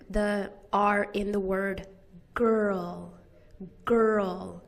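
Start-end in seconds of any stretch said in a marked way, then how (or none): 2.3-4.6 put-on "girl" slowly, with a full er sound; stressed vocalic R. Shown as a demonstration. Teacher demonstrating the R in girl, stressed vocalic R. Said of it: "The stressed vocalic R".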